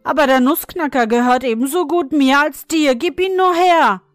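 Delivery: a brother insisting his sister hand the toy over; demanding boy. A narrator's reading. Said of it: "rief Fritz".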